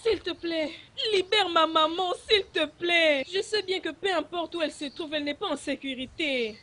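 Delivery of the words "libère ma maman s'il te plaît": tearful begging. Acted. Begging, crying.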